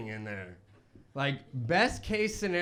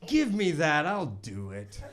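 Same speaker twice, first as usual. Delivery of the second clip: acted confidence; 4 dB louder, slower than usual. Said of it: "I've never said confident things".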